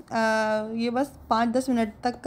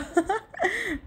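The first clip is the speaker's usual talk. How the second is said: high laugh; 10 semitones higher than usual. Real, not acted. Laughs after husband's quote.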